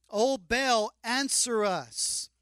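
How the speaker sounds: loud, drawn-out plea to a god; calling out to Baal. Acted. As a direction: call it out slowly and loud, pleading.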